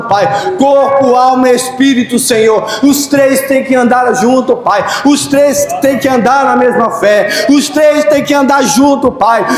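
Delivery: steady earnest praying cadence; fervent prayer. Acted. Pastor leading the church in prayer, earnest prayer voice. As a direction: pray aloud, leading the church.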